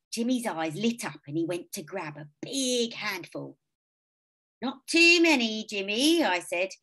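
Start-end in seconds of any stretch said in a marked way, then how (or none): 4.6-6.2 loud firm sibling warning. A narrator's reading. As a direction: stop him, firmly. Warning little brother.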